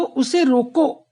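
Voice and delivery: उसे रोको drawn out slowly, then a break; pause after रोको. Shown as a demonstration. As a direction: stretch रोको and stop there, before any मत. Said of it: "एक बार फिर से देख लो". ("रोको" को खींचकर वहीं विराम)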